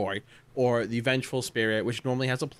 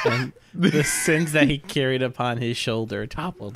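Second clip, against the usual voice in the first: laughing; 4 dB louder than usual. Real, not acted. Laughing during mock sermon.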